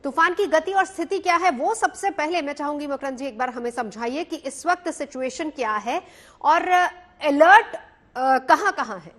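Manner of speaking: echoing voice; cave echo. Real, not acted. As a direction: voice with room echo. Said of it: "आपकी आवाज में इको आ रही है".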